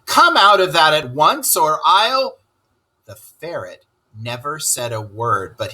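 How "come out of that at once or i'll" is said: angry. Acted. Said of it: "said the Toad very angrily".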